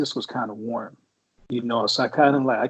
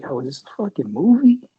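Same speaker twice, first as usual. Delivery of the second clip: raised, louder disbelief; shocked disbelief; 4 semitones higher, 5 dB louder than usual. Retold or imitated. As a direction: react like it's a movie. Retold disbelief at the TV.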